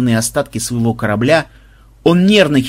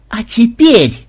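high loud announcement; excited call; 9 semitones higher, 6 dB louder, much slower than usual. Acted. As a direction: build the big moment. Inventor launches the device. (возбуждённый возглас)

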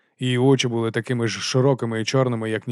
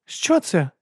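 almost alarmed demand; 8 semitones higher than usual. Acted. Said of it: "зажадала вона ... майже тривожно".

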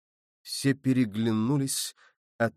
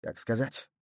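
softer, lower contemptuous murmur; quiet disdainful aside; scornful mutter; 3 semitones lower, 7 dB quieter than usual. Acted. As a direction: mutter it with a sneer. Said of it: "презрительно усмехнулся и пробормотал".

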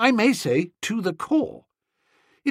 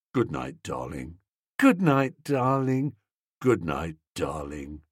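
soft lovers' goodnights fading away, much softer and lower; receding into the distance; 11 semitones lower, 5 dB quieter than usual. A narrator's reading. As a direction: let each goodnight drift off as if they walk away. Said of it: "the nauseous endearments receding in the distance".

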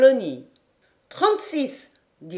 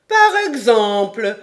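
slow, louder, proud retort; supreme pride; 3 semitones higher, 7 dB louder than usual. A narrator's reading. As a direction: puff up with pride. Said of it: "avec un suprême mouvement de fierté".

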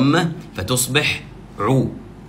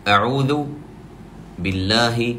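slow recitation; 4 dB quieter than usual. Shown as a demonstration. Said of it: "هذه جملة الاستعاذة".

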